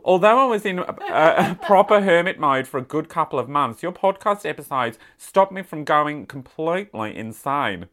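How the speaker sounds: letter read in a put-on Australian accent; playful Aussie accent. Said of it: "read this in my Australian accent".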